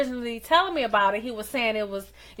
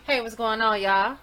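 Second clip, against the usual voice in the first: hype voice. Acted. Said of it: "That was my hype voice".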